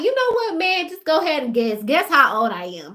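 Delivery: playful dare. Retold or imitated. Daring the man to guess.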